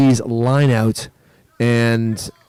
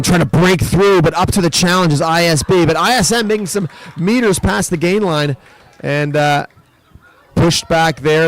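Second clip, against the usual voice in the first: excited call; 4 semitones higher than usual. Real, not acted. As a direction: build with every pass. Live call of attacking play.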